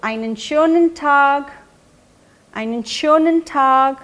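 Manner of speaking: very slow, each syllable laid out for learners; slow teaching model. Shown as a demonstration. Teacher modelling a weekend goodbye for learners, slowly. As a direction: spell the German out slowly so students can copy. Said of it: "तो".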